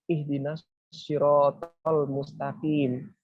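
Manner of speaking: slow, drawn-out prayer recitation; heartfelt recitation. Shown as a demonstration. Asking God for the straight path, slow heartfelt recitation. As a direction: recite it slowly, meaning every word. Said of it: "kayak benar-benar kita hayati gitu loh bacaan itu".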